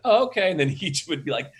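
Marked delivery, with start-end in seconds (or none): 0.0-0.5 higher, compliant little reply; imitated actor's agreement. Director imitating actor taking the note, compliant reply. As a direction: agree readily, pitched up then falling. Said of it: "so he's like".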